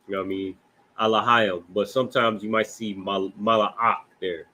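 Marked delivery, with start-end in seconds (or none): 3.4-4.1 Malak slowly as ma-la-ak; separated syllables. Shown as a demonstration. Teacher naming the word for messenger, Malak in separated syllables. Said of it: "Not to be confused with".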